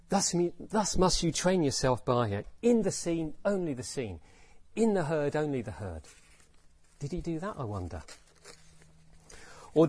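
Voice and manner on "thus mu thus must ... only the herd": brisk, hurried recitation; spoken quickly. Shown as a demonstration. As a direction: rattle it off as if there's no time to lose. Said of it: "Did he therefore speak quickly?".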